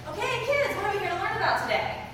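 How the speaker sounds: high-pitched teacher prompting a class; teacher addressing kids. Retold or imitated. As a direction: ask the kids like an upbeat teacher. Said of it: "I hear the teacher introducing me".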